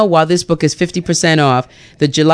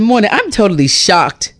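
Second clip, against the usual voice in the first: quoting bookseller; 10 semitones higher than usual. Retold or imitated. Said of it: "He said".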